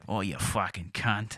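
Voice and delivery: slow, drawn-out mock Australian; mock Australian accent. Showing how Australians swear, mock Australian accent. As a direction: draw it out like an Aussie. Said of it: "Like that".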